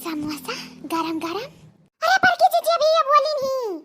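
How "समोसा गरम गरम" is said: much softer, slow coaxing call; a low, slow teasing murmur; soft tempting. Acted. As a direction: lure her awake with samosas. Tempting the unconscious woman.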